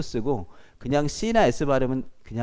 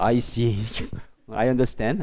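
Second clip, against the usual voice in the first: mock scary acknowledgement; 3 semitones lower, much slower than usual. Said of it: "되게 무섭게 한다".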